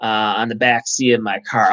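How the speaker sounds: mock complaining passenger, slow and drawn out; whiny passenger. Driver mocking a fussy passenger, slow mock whine. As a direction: imitate a petty customer griping about a hair.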